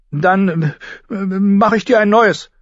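hesitate, then come out with the offer; hesitant suggestion. Acted. Arya offers her sister a new dress, hesitant. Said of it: "schlug Arya vor".

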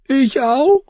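very high, hurt question; protesting girl. Acted. Girl asks if she too is sent away, protesting. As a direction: ask it very high in disbelief.

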